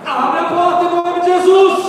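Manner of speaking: slow, loud, high command at the door; commanding shout. Retold or imitated. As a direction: order the demon out, slow and loud. Boy commands demon in story. (grito de ordem, lento e forte)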